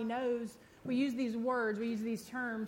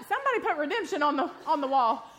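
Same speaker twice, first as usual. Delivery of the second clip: laughing; 3 semitones higher, 5 dB louder than usual. Real, not acted. Laughs at mix-up over slide.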